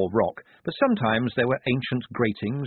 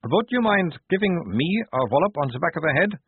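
wretched; 8 semitones higher, 3 dB louder than usual. A narrator's reading. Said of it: "he said, looking wretched".

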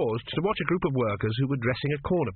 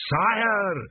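high-pitched bellow of alarm; 9 semitones higher than usual. A narrator's reading. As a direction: call out sharply to stop the king. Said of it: "Dios bellowed".

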